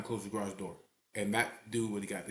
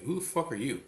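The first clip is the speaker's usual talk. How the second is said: imitating an offended challenge, slightly raised pitch; mildly indignant retold comeback; offended retort; 4 semitones higher, 3 dB louder than usual. Offended woman confronting the man behind the bar, retold as indignant. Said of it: "she gets offended right away".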